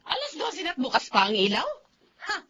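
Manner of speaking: loud, harsh scolding; angry scolding. Acted. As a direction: snap at her like a strict grandmother. Grandmother scolding about light. (galit na pagsesermon)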